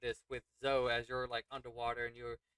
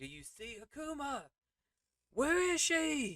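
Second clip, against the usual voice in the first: very high, swooping yell; 14 semitones higher than usual. Narrating a character over the edge yelling to another: yelling. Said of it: "like yelling at Zoe".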